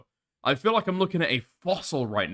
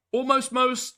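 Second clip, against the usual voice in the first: incredulous echo; 11 semitones higher, slower than usual. Real, not acted. Incredulous echo of a chat line.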